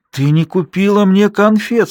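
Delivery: put-on a boy about to cry over sweets; near tears. A narrator's reading. Boy reproaches his mother, close to tears. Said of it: "нижняя губа его предательски задрожала".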